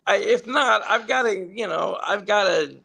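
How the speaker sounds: high, impatient producer voice; a hint of an exasperated woman; fed-up producer. Producer who had enough, high and impatient. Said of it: "I guess she had enough".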